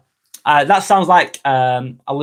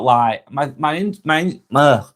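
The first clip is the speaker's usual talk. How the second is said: stumbling over words; slower than usual. Real, not acted. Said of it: "can't get the words out".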